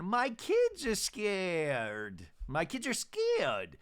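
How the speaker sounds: slow, drawn-out worried tone; a hint of a worried mother; mock Gina. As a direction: stretch it out mournfully. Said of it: "Gina going".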